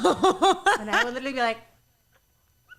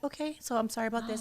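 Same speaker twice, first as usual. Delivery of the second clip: calm apology; 3 semitones lower, 6 dB quieter than usual. Retold or imitated. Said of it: "he'd be like".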